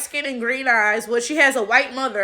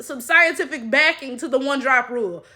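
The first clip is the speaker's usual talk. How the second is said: normal talking voice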